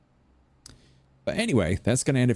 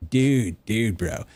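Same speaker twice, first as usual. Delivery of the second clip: put-on surfer American accent; 2 semitones higher, much slower than usual. Showing the West Coast American accent, surfer-dude style. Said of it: "go for that surfer one".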